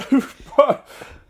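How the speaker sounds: loud, high-pitched laugh. Real, not acted. Guest laughing partway through answering the host, loud laugh.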